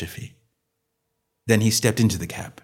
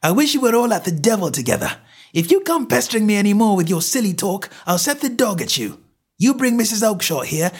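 higher, louder, fast angry tirade; angry shout; 12 semitones higher, 4 dB louder than usual. Acted. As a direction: drive the pest off. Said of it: "he shouted".

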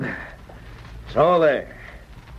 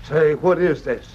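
shocked disbelief; 7 semitones higher than usual. Acted. Jeb learns there was no gold.

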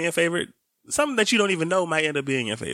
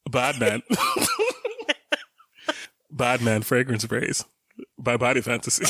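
forcing a deep voice. Retold or imitated. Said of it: "Mikey, can you say it again?".

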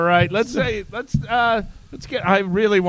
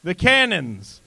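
declaimed stage cry; yell; 3 dB louder, much slower than usual. Acted. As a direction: proclaim it like a Shakespeare line. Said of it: "You run out and yell".

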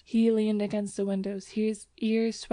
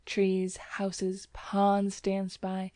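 plain reading voice

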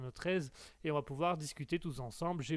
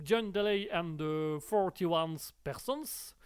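band name in a careful put-on English accent; much slower than usual. Shown as a demonstration. Radio host showing listeners his English accent. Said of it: "j'ai travaillé mon accent anglais".

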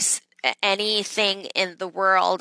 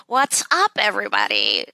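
hearty show-opening holler; enthusiastic shout-out; 4 semitones higher than usual. Real, not acted. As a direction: greet the crowd with a big lifted hello. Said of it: "go ahead and say what's up".

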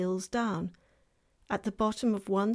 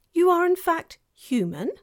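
fawn voice; 10 semitones higher, 9 dB louder than usual. Acted. Fawn asks Lucy.

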